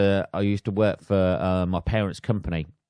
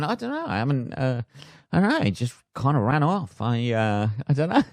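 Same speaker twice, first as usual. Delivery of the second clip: much higher, evasive mock mumble; a shifty man dodging the question; guilty survivor; 3 semitones higher than usual.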